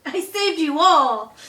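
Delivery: triumphant boast. Pretend. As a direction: crow about saving everyone.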